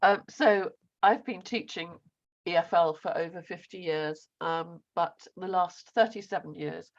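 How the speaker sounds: thin, squeaky strained voice. Real, not acted. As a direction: speak with a squeaky, worn voice. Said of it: "excuse my squeaky voice".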